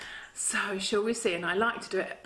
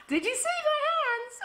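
much higher, laughing question; delighted giggle. Real, not acted. Laughing after boo.

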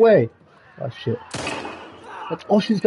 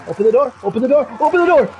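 plain demand climbing to a yell; building frustration; 4 semitones higher than usual. Real, not acted. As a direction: pound on the door with your voice. Repeated demand at teammate's door.

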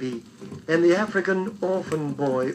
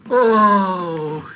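startled oh; 3 semitones higher, 8 dB louder than usual. Acted. Waking from an awful dream.

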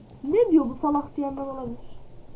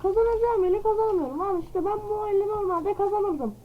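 whiny protest, higher pitch; 5 semitones higher than usual. Real, not acted. Repeats complaint twice.

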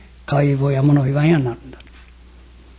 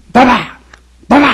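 put-on high, loud call of a child; 7 semitones higher, 5 dB louder, faster than usual. Mute boy bursts in shouting for grandma, high loud call.

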